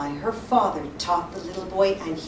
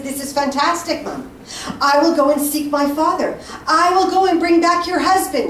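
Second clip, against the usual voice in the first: put-on higher, louder thrilled boy with a laugh; excited boy; 5 semitones higher, 5 dB louder than usual. Boy thrilled by father's gifts tells mother, excited. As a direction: burst with eager resolve.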